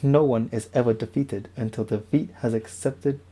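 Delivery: light imitation of a Bruce Lee accent, barely shifted; understated Bruce Lee accent, mostly own voice. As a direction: read the quote in a faint hint of Bruce Lee's accent. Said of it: "maybe I'll stop doing the accent".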